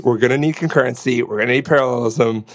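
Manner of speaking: hyped radio DJ hype, punching each line; morning zoo voice. Retold or imitated. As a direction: pump it like a morning radio host. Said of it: "that's my morning zoo voice".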